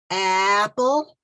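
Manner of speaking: Apple said loud and clear for the class to repeat; clear model word. Shown as a demonstration. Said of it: "I'm going to show you what to do".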